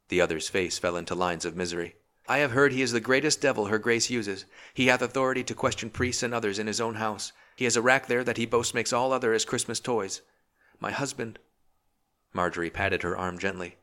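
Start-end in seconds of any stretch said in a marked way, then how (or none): 2.3-11.4 put-on a young woman on the edge of tears; mild fear rising, fading on husband; frightened young wife. Girl tells fearfully of Topcliffe.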